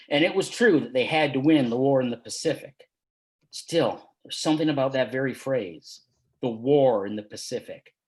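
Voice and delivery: steady, measured reading of his own story; story narration. A narrator's reading. Author reading his story to an audience, measured narration. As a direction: read the tale to listeners, unhurried.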